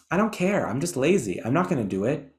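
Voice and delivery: lightly imitated Boston teen accent; a hint of a Boston accent. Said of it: "imagine that in a Boston accent".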